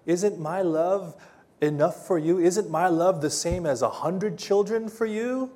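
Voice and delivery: mildly pleading, voice lifted; pleading husband. Acted. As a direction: plead as a well-meaning, foolish husband. Pleading husband voiced in Bible story.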